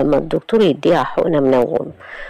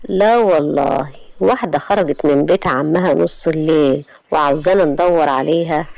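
sarcastic. Acted. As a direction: drag out the scorn. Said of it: "أحلام بسخرية".

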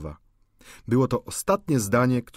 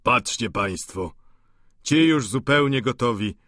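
mock-comic Vautrin. A narrator's reading. Vautrin mocking the drunk men comically. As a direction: play the joker over the drunks. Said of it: "w sposób komiczny".

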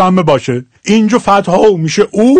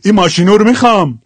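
quicker Shirazi ending, u in ماشینو; Shirazi accent; faster than usual. Shown as a demonstration. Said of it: "حال شیرازیش". (ماشینو با لهجهٔ شیرازی)

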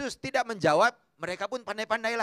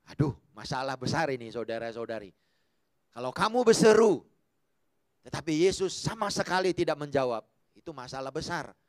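ordinary delivery

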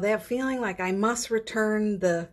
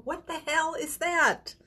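higher, drawn-out incredulous cry; mock disbelief; 10 semitones higher than usual. Someone recoiling from a compliment, in mock disbelief. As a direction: recoil in slow, comic bafflement.

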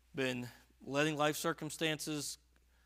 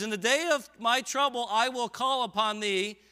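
louder, higher, slower preached reading; 8 semitones higher, 11 dB louder than usual. Real, not acted. Preacher rereading the verse to the church, more forcefully. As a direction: hammer the verse home. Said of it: "And he says".

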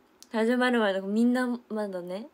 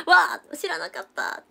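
surprised gasp; 9 semitones higher, 5 dB louder than usual. Retold or imitated.

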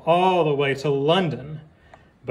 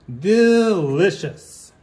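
savoring delicious; 3 semitones higher, 4 dB louder, much slower than usual. Pretend. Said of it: "savouring the hot dog".

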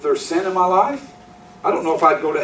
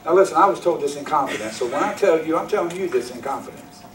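mock gossip; 3 semitones lower, 6 dB quieter, faster than usual. Mocking a church gossip.

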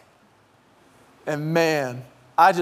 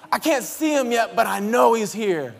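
put-on mildly raised kid's voice, easing down; eager child, less than a shout; excited child; 4 semitones higher than usual. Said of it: "the sound of them excited I'm home".

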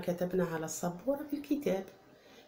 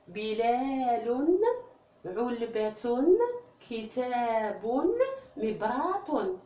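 slow classroom word reading; 3 semitones higher, much slower than usual. Shown as a demonstration. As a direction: read each word slowly for children. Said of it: "نقرأ الكلمة يا أطفال".

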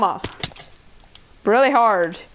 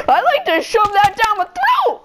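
high, louder mocking voice; mocking other players; 11 semitones higher, 4 dB louder than usual. Kid mocking other players in a silly voice. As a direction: sneer it as a dumb rival. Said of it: "They like".

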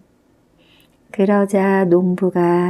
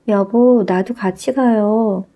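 wife calling out; 2 semitones higher than usual. Acted. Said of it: "농부의 아내가 소리치자".

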